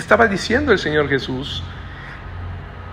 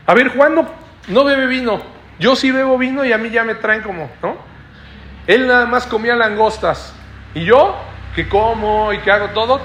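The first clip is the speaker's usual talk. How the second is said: a hint of an exasperated Jesus, raised; lightly voiced Jesus protesting, a bit higher; voicing Jesus; 4 semitones higher than usual. Preacher voices Jesus answering his critics, lightly raised.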